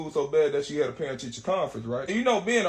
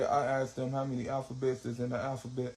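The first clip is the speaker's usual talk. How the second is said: nervous niece; 5 semitones lower, 6 dB quieter than usual. Retold or imitated. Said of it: "My little niece still nervous".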